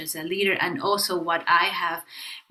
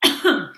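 forced cough; 6 dB louder than usual. Shown as a demonstration. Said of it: "Just force yourself a cough".

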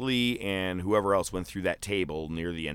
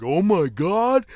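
slow, high, loud "oh my god" in awe; marking out; 11 semitones higher, 8 dB louder, slower than usual. Retold or imitated. Fan in the crowd reliving the moment, awestruck and loud. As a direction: jump up in awe at the ladder spot. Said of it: "I was like".

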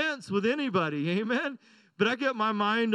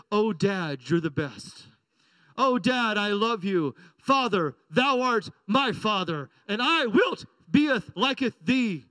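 mock old-English daughter; 3 semitones lower, slower than usual. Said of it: "I know five-year-olds don't speak like that".

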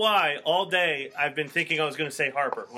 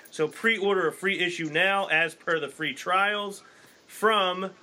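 ad read; 3 semitones higher than usual. Acted. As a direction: sell the magazine like a radio spot. Ad read for sponsor.

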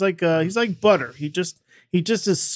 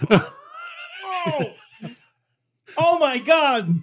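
disgusted groan; groaning at a horrible taste; eating gross jelly beans; 7 semitones higher, much slower than usual. Real, not acted. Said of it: "So that face made me sad".

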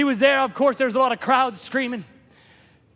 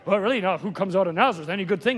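doubting; 7 semitones lower, faster than usual. Acted. Doubter's reply, acted for contrast.

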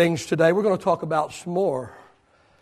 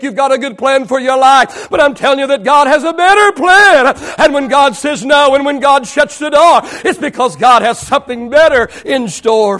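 raised, higher preacher's voice; impassioned preaching; 8 semitones higher, 9 dB louder than usual. Real, not acted. Preacher promising God's better plan, impassioned. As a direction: insist on it to the congregation.

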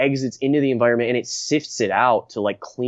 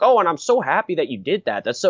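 mock fawning, pitched higher; Brian Stelter; 5 semitones higher than usual. Anchor buttering up the scientist, mock gushing flattery. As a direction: imitate someone sucking up. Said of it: "tries to, like, sucker up to him".

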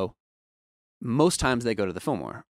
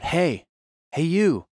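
higher-pitched imitation of someone hailing; calling out; 8 semitones higher, 5 dB louder, much slower than usual. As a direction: mimic a musician trying to get attention. Musician calling to busy engineer.

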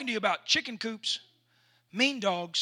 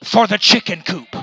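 chicken's relief; 3 semitones higher, 18 dB louder, slower than usual. Pretend. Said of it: "she was going".

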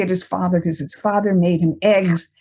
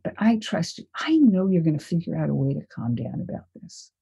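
reassuring. Retold or imitated. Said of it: "And I said to him".

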